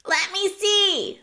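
high, slow, loud rat voice; loud high-pitched rat clamouring to see; eager jostling rat. A narrator's reading. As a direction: push in, demanding a look. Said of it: "pushing and shoving".

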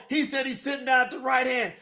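incredulous preacher's cry; indignant shout. Real, not acted. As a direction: shout it out at the doubters. Preacher arguing with opponents' view.

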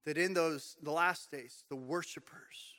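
slow unvoiced whisper of "the worshipers". Real, not acted. Preacher hushing the church, slow whisper. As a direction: breathe it like a secret.

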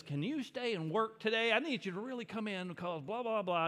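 lightly voiced manager pressing for a shift; half-done impression of the boss asking you to stay; Mister White voice. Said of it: "He says".

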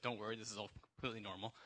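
imitating a friend's British accent; lightly put-on British accent. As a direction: reassure in a casual British accent. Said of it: "With a British accent, though, that was good".

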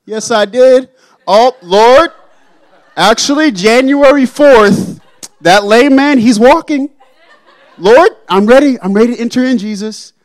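mock someone listing miracles to Jesus; boastful believer. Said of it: "many people come up to the Lord and say".

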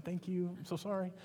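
quietly retold apology, gentle and hushed; hushed polite sorry; soft apology. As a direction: murmur the apology like backing out of a room. Politely bowing out after rejection.

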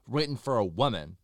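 imitated big lisp; Beef's lisp. Singer objecting that song suits a woman, lisping. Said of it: "he has a very big lisp".

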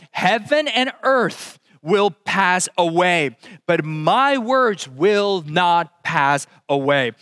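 slow, weighty reading of the verse; solemn scripture reading. Acted. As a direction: let each word land.

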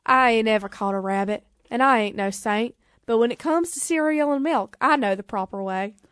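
lightly voiced rock-and-roll king; a hint of an amateur Southern star impression; a famous singer. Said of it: "what does the singer sound like?".

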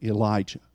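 "Elijah" said firm and final, low at the end; emphatic name. Shown as a demonstration. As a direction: call the name as a rebuke. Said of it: "an emphatic".

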